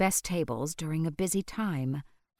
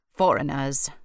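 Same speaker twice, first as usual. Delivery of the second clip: disdainful; 2 semitones lower, 6 dB louder than usual. A narrator's reading. Old man mutters disdainfully.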